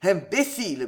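mild gruff scolding; understated irritation; growled insult. Acted. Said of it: "gronda-t-il".

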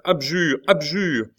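high, loud urgent plea; mother's wail. A narrator's reading. Mother urging her son to abjure, high cry. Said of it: "hurla la mère".

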